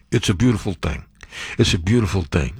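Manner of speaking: lightly voiced Trump impression; mock Trump voice. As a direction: savor it like Trump would. Mocking Trump's words.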